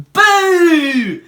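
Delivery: loud, high boo; Little Mug tries to scare the children; shouted boo. Acted. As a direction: jump out and boo at them. Monster mugs scaring children.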